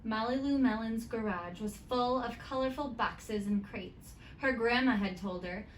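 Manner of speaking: put-on lively read-aloud to children; story narration. A narrator's reading. Teacher reading a picture book to her students, lively storytime.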